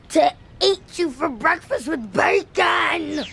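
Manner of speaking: monster shout. Retold or imitated. Little brother as monster at the door, slow loud bellow. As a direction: bellow it slowly like a hungry monster. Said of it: "He says".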